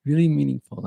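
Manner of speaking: high, loud, overwhelmed gush; moved exclamation. Retold or imitated. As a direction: blurt it out, deeply touched. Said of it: "where I'm like".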